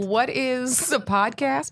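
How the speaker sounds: slow, puzzled mom voice; clueless mom. Retold or imitated. Imitating mom puzzled about podcasts, slow. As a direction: ask it like a confused parent. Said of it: "My mom would be like".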